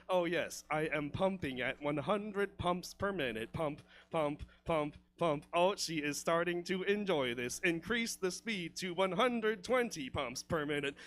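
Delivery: lightly voiced machine reporting its status; mock robotic lover. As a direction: count it out stiffly, word by word. Playing himself as robotic analytical lover.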